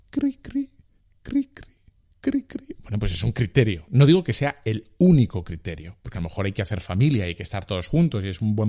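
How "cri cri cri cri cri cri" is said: high, thin cricket chirping; cricket chirps. Retold or imitated. Crickets after awkward question. (grillos cantando en el silencio incómodo)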